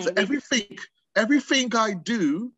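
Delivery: "everything" ending in a K sound, "everyfink"; ING as K. Shown as a demonstration. Showing English speech to the host, "everything" said as "everyfink". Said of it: "the I N G is a K sound".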